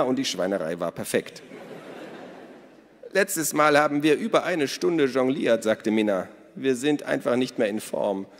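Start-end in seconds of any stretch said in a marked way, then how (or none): 3.1-8.3 hohe, laute Stimme einer lebhaften Frau; Minnas Stimme. A narrator's reading. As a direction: Minna ruft die Gäste fröhlich zum Essen. Narrator voices Minna. (hohe, laute Frauenstimme)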